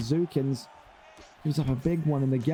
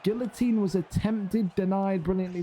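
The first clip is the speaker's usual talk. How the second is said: excited play-by-play; 4 semitones higher than usual. Acted. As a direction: build the call as the choke sinks in. Still excited call.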